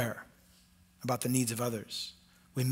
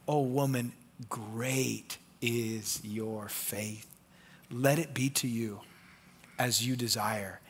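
soft, very slow, softer tender blessing; gentle blessing; 5 semitones lower, 4 dB quieter, slower than usual. Acted. Jesus blessing the woman, soft slow tender voice. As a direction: bless her gently, lingering.

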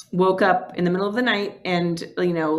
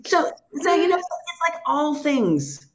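teary voice; 7 semitones higher than usual. Real, not acted. Choking up while telling the podcast host about her dad. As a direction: hold back tears as you speak. Emotional after memory of dad.

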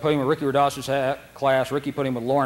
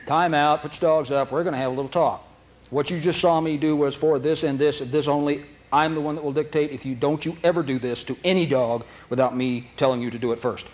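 stern instructor. Retold or imitated. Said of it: "you go".

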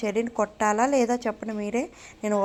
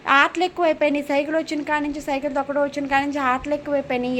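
raised-pitch motherly reproach; scolding complaint; 4 semitones higher, faster than usual. Real, not acted. Mother scolds child over too much play.

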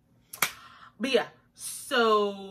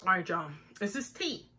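chewing ice while talking; ice in mouth; 3 semitones lower, 5 dB quieter than usual. Real, not acted. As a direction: talk around a mouthful of ice. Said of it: "Excuse me while I chew this ice".

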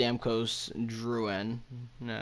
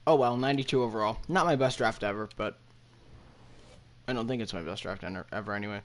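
talking while chewing gum. Real, not acted. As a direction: speak around a wad of gum. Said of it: "I'm chewing, uh, gum".

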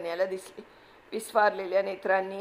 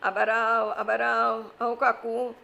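calling out; 2 semitones higher, 4 dB louder, slower than usual. Acted. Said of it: "तो ओरडू लागला".

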